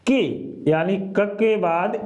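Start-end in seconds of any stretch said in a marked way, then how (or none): 0.1-0.2 के said short and clear; model syllable. Shown as a demonstration. Teacher to students, demonstrating के. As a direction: sound out के. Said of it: "कैसे?".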